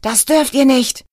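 bold shout. A narrator's reading. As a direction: call out bravely over the noise. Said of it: "schrie ein Schaulustiger mutig".

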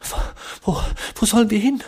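atemlos, hoch und schnell; keuchend. A narrator's reading. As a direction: gehetzt beim Rennen hervorstoßen. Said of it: "keuchte James". (James keucht beim Rennen zur Tür)

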